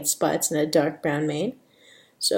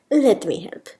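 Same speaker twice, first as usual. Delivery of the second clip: lightly put-on Spanish accent; mild Spanish accent. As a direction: offer help with a hint of Spanish accent. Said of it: "Sophia's got a bit of a Spanish accent".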